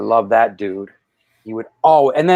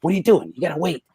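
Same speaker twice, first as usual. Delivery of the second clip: retold telling-off; mad umpire; 3 semitones higher than usual. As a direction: scold like an annoyed rookie umpire. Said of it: "umpire got mad at me once".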